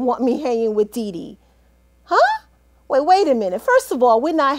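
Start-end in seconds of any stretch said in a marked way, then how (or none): 2.0-2.4 startled huh. Acted. Husband objects to Dee Dee.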